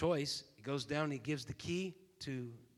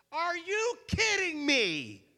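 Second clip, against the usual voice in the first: much higher, louder and slow; incredulous outburst; 13 semitones higher, 9 dB louder, slower than usual. Retold or imitated. Guest confronts hotel clerk, loud and incredulous. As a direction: blurt it out in disbelief, voice jumping up. Frustrated big guy at desk.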